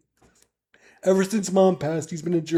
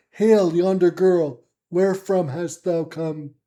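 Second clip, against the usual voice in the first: archaic soldier calling down; slower than usual. Acted. Guard on the wall calls down to the stranger girl, slow and carrying. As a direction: hail her slowly from the wall like an old-time sentry.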